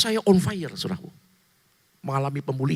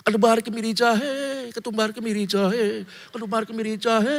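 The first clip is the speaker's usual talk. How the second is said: playful mock Indian accent, pitched up; 5 semitones higher than usual. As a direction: chant the spices like a mock Indian film line. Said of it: "itu kan rempah-rempah bahasa India".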